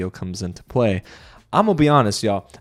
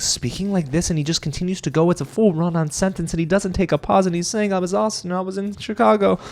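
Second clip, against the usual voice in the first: high, unbroken rush without a pause; one-breath run-on imitation; 7 semitones higher than usual. Imitating Alex explaining himself defensively, high one-breath run-on. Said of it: "like, he does it in one breath".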